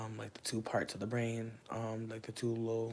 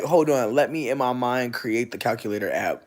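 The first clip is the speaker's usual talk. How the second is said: mock calculating; 12 dB louder than usual. Admitting she's no math person, in a loud hammed-up self-quote. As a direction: play yourself loudly building a calculator in your head. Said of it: "I be really like".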